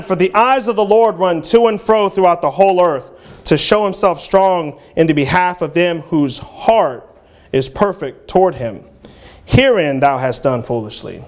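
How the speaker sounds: measured King James reading voice; scripture reading. Acted. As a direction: read it out like a preacher quoting scripture. Reads the scripture passage.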